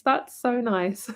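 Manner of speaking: ordinary delivery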